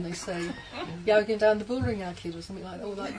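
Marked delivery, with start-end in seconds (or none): 1.1-2.3 mock Brummie. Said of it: "Don't do the accent".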